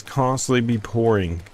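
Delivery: "constantly" firmly stressed at the phrase start; emphatic restatement, weight on "constantly". Real, not acted. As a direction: hit "constantly" to drive it home. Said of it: "I want to emphasize".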